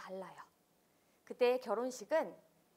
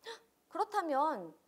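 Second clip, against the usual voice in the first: mock gasp; 4 semitones higher, 4 dB louder than usual. Storyteller feigns surprise.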